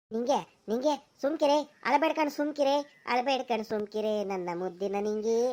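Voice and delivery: tender hushing, pleading her to stop crying; comforting. Acted. Husband comforting weeping Ninge, tender hushing. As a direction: soothe her like a child.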